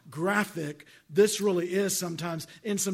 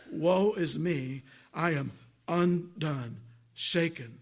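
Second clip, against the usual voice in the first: slow, hushed lament of despair; a grieving prophet, drawn out and low; lamenting Isaiah; 4 semitones lower, slower than usual. Acted. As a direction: let each word fall heavy with ruin. Isaiah's lament read from scripture.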